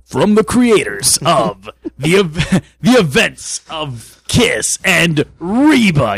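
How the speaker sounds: slow movie trailer voice; trailer announcer. Pretend.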